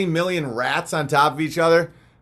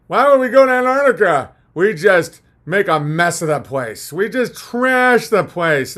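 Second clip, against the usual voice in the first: mocking critic.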